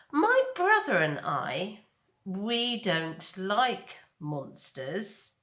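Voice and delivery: put-on slow, menacing young bear; drawn-out bear threat; bear threatening. Bear Nettle warning the robot, slow menace.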